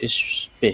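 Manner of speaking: "এসপে" as esh-pe; sh before p. Shown as a demonstration. Teacher showing the letter pair, "এসপে" said esh-pe. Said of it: "এটা উচ্চারণ হলো যে".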